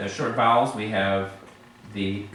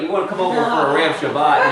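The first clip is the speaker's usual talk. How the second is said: quick, higher joking invitation with Erev as eh-REV; louder mock invite, leaning wrongly on "rev" in Erev; misplaced stress; 4 semitones higher, 5 dB louder, faster than usual. Shown as a demonstration. Teacher jokes an invitation to class, misplaced stress on Erev. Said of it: "it's not Erev Shabbat".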